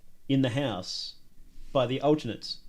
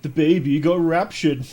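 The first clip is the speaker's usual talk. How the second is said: evil voice; 2 semitones higher, 8 dB louder than usual. Pretend. Reading text in evil voice.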